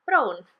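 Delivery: "brown" said with the Welsh O, like the O in home; "brown" with a narrow O and rolled R, not English brown. Shown as a demonstration. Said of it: "spelt exactly the same as brown".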